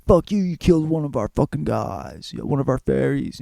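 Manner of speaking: a hint of a hostile fairy, mock angry; lightly voiced fairy accusing her; angry fairies. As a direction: snap back as the offended fairy folk. Fairies' angry reply in retold plot.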